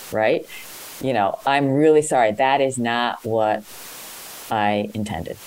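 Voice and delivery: slow, careful, sincere apology. Acted. Coach models apologising to an offended colleague, slow and sincere. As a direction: take it slowly and mean the sorry.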